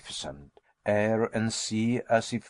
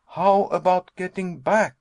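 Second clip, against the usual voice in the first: higher, louder worried asking; anxious question; 7 semitones higher, 5 dB louder than usual. A narrator's reading. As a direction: press the worry upward. Nephew asks anxiously.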